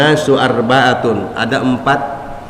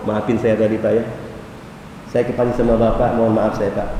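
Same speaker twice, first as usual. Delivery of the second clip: soft apology; 4 semitones lower, 6 dB quieter, faster than usual. Retold or imitated. Man apologising after anger.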